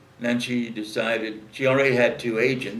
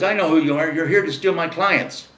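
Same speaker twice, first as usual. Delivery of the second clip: higher, louder, accusing the newcomer; angry outburst; 5 semitones higher, 6 dB louder than usual. Retold or imitated. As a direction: snap it out like a jealous agent.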